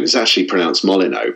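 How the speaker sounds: Molyneux ending in "oh"; mother's corrected pronunciation. Retold or imitated. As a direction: say Molyneux as MOLL-in-oh. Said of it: "she corrects people in terms of how to say".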